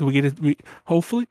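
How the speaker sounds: interrupted by hiccups; hiccuping. Real, not acted. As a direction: speak through hiccups. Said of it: "I keep hiccuping".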